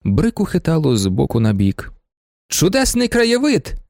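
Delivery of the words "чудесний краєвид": high, slow cry of delight; a rapturous cry at a wide panorama; delighted exclamation. Acted. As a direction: exclaim at the view, much higher. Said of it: "закричала пані Вонсовська".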